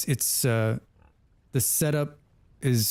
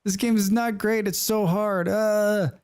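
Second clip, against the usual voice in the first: frustrated self-quote; 9 semitones higher than usual. Retold or imitated. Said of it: "I was like".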